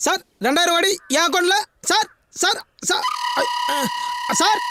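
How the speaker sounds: high, urgent calls down the line; frantic phone pleading. Acted. To sir as the two-thousand-crore call drops, high and frantic. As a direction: pitch climbing as the line slips away.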